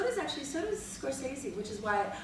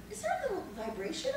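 laughing mock question; 9 semitones higher, 3 dB quieter, faster than usual. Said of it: "And everyone's like".

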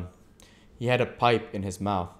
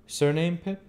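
higher, louder stranger's voice; 10 semitones higher, 5 dB louder than usual. A narrator's reading. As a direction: voice the odd stranger, curious. Stranger asks.

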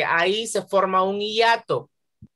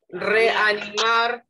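slow syllables; 3 semitones higher, much slower than usual. Shown as a demonstration. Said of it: "sepárenla en sílabas".

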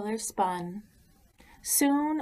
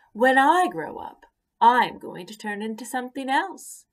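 proud bragging caterpillar; 5 semitones higher, 6 dB louder than usual. Acted. Caterpillar brags again.

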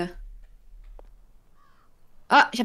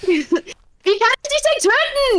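mock menacing; 12 semitones higher, 5 dB louder, slower than usual. Monster player taunting.

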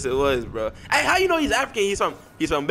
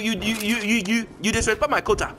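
higher put-on voice; 4 semitones higher than usual.

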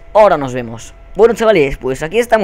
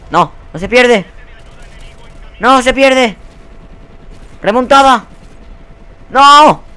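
loud, much higher yells at the game; frantic shouting; 10 semitones higher, 7 dB louder, slower than usual. Real, not acted. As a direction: yell in desperate hope of a comeback. Shouting at the game while losing. (gritos agudos y desesperados)

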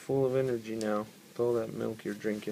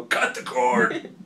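put-on baby voice; 5 dB louder, much slower than usual. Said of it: "just go".

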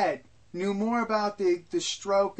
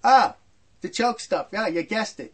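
sarcastic; 5 dB louder than usual. Retold or imitated. Dad's sarcastic praise of Ronnie.

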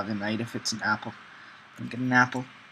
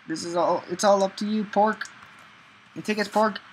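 higher, sing-song pleading to the pig; playful pleading; 7 semitones higher than usual. Real, not acted. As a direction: coax it with a raised voice. Pleading with game animal.

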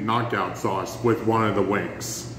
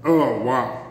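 pained exclamation; 3 dB louder, slower than usual. Real, not acted. Mouth burning from hot sauce.

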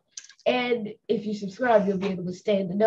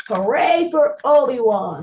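slow, loud cheer for the hero; 2 semitones higher, 7 dB louder, slower than usual. Real, not acted. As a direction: cheer him on at the end. Cheering the story's end.

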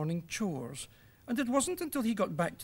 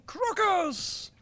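shouting; 11 semitones higher than usual. Acted. Little Nose springing his joke on Father, triumphant shout. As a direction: shout the prank word in glee.

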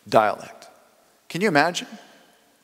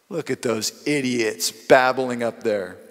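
mocking sneer; slower than usual. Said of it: "some mocked and said".

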